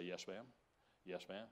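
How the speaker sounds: meek yes ma'am. Retold or imitated. Meekly giving in to wife.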